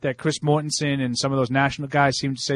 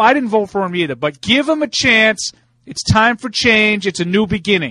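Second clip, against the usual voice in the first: mock political speech; 8 semitones higher, 5 dB louder than usual. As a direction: ham it up like a politician at a rally.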